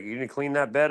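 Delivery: a scandalized nag; imitating staff. Hospital staff scolding about the bed, high mock voice.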